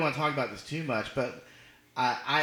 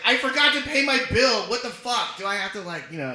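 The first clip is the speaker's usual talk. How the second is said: mock panic; 4 semitones higher, 3 dB louder than usual. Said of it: "I was like".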